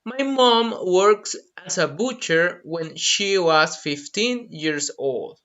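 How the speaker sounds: slow, clear model sentence; carefully paced example. Shown as a demonstration. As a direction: say it slowly for learners. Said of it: "For example".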